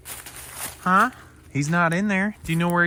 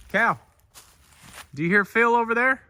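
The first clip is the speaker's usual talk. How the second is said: calling out; 10 semitones higher, 4 dB louder than usual. Real, not acted. Calling to dog in woods.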